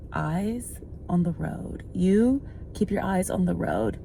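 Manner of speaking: slow, soft steady warning; calmly telling the angry driver to watch the road; calm and firm. Retold or imitated. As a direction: talk him down slowly and evenly. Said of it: "so calm".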